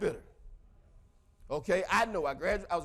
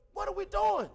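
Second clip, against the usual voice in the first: laughing disbelief; 11 semitones higher than usual. Retold or imitated.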